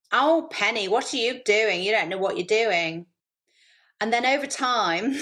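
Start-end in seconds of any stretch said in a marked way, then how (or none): 0.1-3.1 lightly voiced nagging inner critic; a hint of a scolding inner voice; inner critic Sybil. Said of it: "I've got self-talk Sybil".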